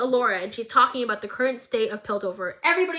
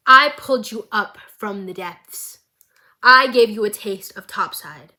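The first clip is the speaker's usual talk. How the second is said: menacing whisper; 2 semitones lower, 7 dB louder than usual. Retold or imitated. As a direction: hiss it close, villain menace. Silco menacing Finn in recap.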